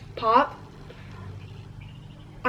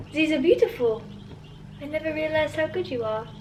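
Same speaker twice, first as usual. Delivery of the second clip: film line in a Russian accent, higher pitch; 5 semitones higher, 4 dB quieter than usual. Shown as a demonstration. Young actor recalls her audition lines, Russian accent. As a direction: recite it as a Russian girl, softening at the end. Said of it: "can I say a few lines".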